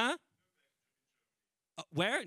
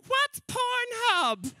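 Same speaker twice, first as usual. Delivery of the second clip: put-on very high, slow, wondering old mum voice; a naive mother calling out from the back; innocent mum; 5 dB louder, much slower than usual. Mum at the back asking the comic, high and slow. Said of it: "my mum at the very back of the room going".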